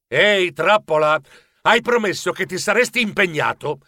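lieve tono di rimprovero. Acted. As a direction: richiama l'amico senza alzare troppo la voce. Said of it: "Io lo rimproverai". (bonario rimprovero)

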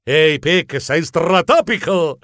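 swaggering greeting, drawn out at the end; cocky. Acted. Geronimo rehearses greeting his idol, cocky. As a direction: greet the champion like an old pal, cockily. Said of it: "troppo spavaldo".

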